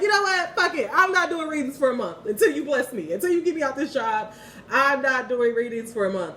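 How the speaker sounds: heated mock ultimatum; exasperated outburst. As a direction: tell God off, fed up and defiant. Retold outburst at God.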